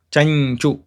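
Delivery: Chanchu with ny before chu; Chanchu, nasal made where ch is; palatal anuswara. Shown as a demonstration. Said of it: "Anuswara pronounced as Inya".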